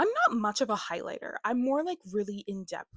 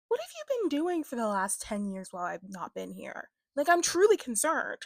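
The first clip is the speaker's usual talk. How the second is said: mock concern; 3 semitones higher than usual. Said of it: "her sarcasm to all these people".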